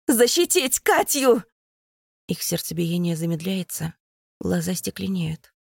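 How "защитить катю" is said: loud, high urgent command; rally them to protect her; shouted order. A narrator's reading. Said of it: "кричу я всем".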